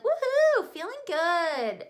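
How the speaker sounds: high excited woohoo; excited cheer. Retold or imitated. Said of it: "I'm like".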